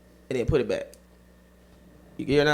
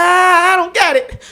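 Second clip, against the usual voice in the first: high sheepish friend voice; 12 semitones higher, 4 dB louder than usual. Retold or imitated. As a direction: shrug it off in a high voice. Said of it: "He was like".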